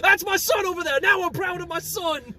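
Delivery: a hint of boastful Italian papa; proud Italian dad. Mario's dad once his son succeeds, mock-proud father voice. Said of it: "the second he accomplished it".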